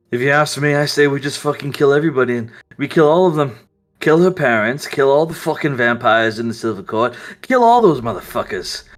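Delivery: lightly voiced ruthless vampire, persuasive; Volturi scheming. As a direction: pitch world domination with cold conviction. GM voicing Volturi's scheming speech.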